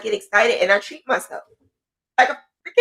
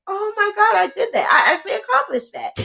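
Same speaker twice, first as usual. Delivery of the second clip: much higher, near-tearful cry of delight; overjoyed; 13 semitones higher, faster than usual. Retold or imitated. Creator reliving a reached goal, overjoyed cry. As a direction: squeal it like you can't believe it. Rereading old goals, overjoyed.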